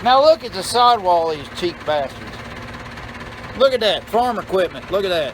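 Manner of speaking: disgusted, hit each look; showing the cheap fitting, loud and disgusted; loud rant. Real, not acted. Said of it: "I've been doing a rant video".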